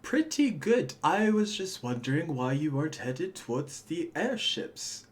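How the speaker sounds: high-pitched, lightly voiced guard; guard Davik, affable. Game master voices guard Davik.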